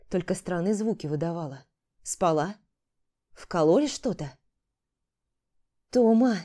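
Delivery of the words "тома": громкий встревоженный зов по имени; позвать сестру громче, с тревогой. Acted. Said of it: "вновь позвала Ярцева". (Валерия громко зовёт сестру, тревожный окрик)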